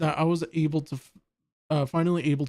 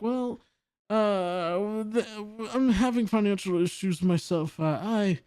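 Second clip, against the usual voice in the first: accidental Irish lilt, pitched higher; higher-voiced boss with a hint of Irish; Irish accent; 5 semitones higher than usual. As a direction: slip into a mock Irish accent. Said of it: "giving James Stephanie Sterling an Irish".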